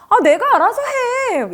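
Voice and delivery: high, sharp brush-off; irritated snap. Retold or imitated. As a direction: snap back, annoyed. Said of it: "이렇게 되는 거예요".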